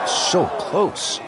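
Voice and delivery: hushed near-miss groan; breathless whisper. Real, not acted. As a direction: breathe it out as it misses. Putt just misses.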